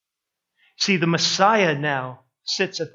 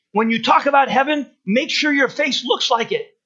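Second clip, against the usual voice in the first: fiery preacher advice; 5 semitones higher, 3 dB louder than usual. Retold or imitated. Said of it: "I'm not gonna do it in his accent".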